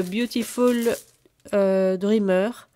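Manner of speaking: slow, loud English title in a French accent. Real, not acted. Showing her new paper collection, naming it in slow, loud French-accented English. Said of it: "Alors mon accent anglais, excusez-moi".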